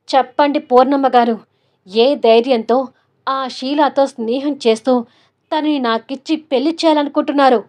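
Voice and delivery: angry bass voice. Acted. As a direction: grill her sarcastically. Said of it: "బేస్ వాయిస్తో".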